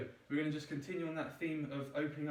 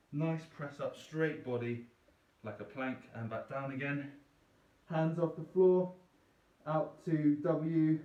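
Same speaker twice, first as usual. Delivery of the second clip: face down, muffled into the carpet; 5 dB louder, slower than usual. Real, not acted. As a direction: talk with your face pressed to the floor. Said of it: "my voice is a bit muffled with this 'cause my face is in the carpet".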